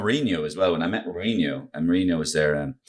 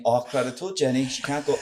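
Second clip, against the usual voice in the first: Roy Keane; 4 semitones higher, 4 dB quieter than usual. Acted. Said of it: "Roy Keane, will you".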